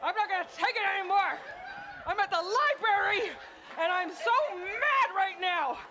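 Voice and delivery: hammed-up defiant declaration; mock rage. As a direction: proclaim it with comic indignation. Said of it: "Get mad. You tell people".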